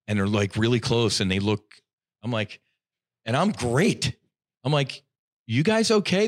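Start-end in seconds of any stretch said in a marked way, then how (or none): 5.5-6.3 high-pitched, eager check-in; retold concerned question. Waking man asks his crying friends, high and concerned. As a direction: ask it high, as if just coming round.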